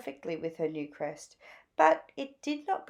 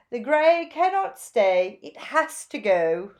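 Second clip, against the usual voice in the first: gushing Zelda; 2 semitones higher, 7 dB louder than usual. A narrator's reading. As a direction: gush over the new look like a flamboyant stylist. Zelda voiced.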